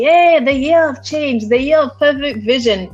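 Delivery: mocking optimism. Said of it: "Everyone came into twenty twenty".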